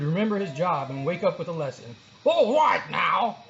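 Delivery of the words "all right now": slow, loud lazy drawl; sleepy teacher drawl. A narrator's reading. Teacher rousing the sleeping class, slow drawl. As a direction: stretch it out like a half-asleep teacher. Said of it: "he would drawl".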